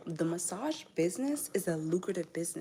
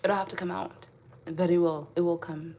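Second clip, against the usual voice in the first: loud laughing protest; 9 dB louder than usual. Real, not acted. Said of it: "Can I do an African accent?".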